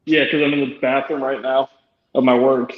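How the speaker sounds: muffled echoing phone line; underwater. Real, not acted. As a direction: sounds like talking underwater. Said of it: "you sound like you underwater".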